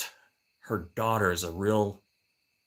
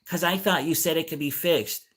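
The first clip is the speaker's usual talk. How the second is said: same high put-on voice, repeating; imitating repetitive neighbor; 5 semitones higher than usual. Old lady repeating herself to neighbor, mimicked high. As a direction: parrot her repetition, pitched up. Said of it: "then she repeats herself".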